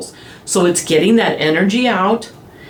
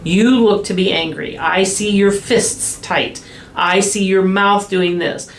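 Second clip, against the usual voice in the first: calm labeling demo. Shown as a demonstration. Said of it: "verbally say what you're seeing".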